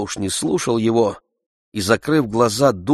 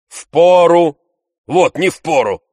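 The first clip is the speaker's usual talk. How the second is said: higher, louder scoffing echo; Tarantyev interrupting; 9 semitones higher, 7 dB louder, slower than usual. A narrator's reading. Tarantyev cutting Oblomov off, loud scoffing repeat. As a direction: toss the word back mockingly. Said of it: "перебил Тарантьев".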